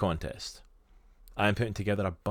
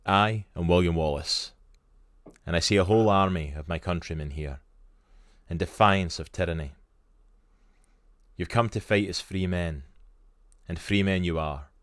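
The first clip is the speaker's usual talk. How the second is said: William Wallace; 3 dB louder than usual. Acted. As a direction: address the army in a Scottish accent. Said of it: "This is the famous speech right before the Battle".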